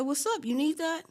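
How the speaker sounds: high-pitched, goading questions; retold fight challenge. Teller challenges the second girl walking by, taunting.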